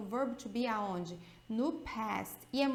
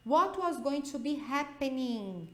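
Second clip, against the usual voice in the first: What said slowly and firmly; slow model sentence; slower than usual. Shown as a demonstration. Teacher reading the example sentence slowly. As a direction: read it slowly for students to copy. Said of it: "Dá uma olhada nessa frase".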